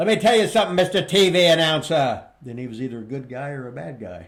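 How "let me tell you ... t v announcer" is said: loud, raised promo-announcer voice. Retelling a wrestler's catchphrase to interviewers: Ernie Ladd impression. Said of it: "no matter who it is interviewing me".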